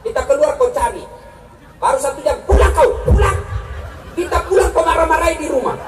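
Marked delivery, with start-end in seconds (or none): 2.5-3.4 high, loud mock wife shouting come home; mock wife yelling. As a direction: bark it like a bossy wife. Wife ordering husband home. (teriakan istri yang galak, dibuat-buat)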